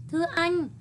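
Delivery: a hint of a timid, courteous sparrow; polite sparrow. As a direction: ask sweetly and politely, a small bird to a cat. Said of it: "Lễ phép nói".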